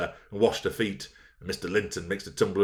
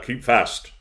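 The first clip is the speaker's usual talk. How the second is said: repeated shout, a bit less loud; 4 semitones higher, 4 dB louder than usual. A narrator's reading. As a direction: bark the order a second time.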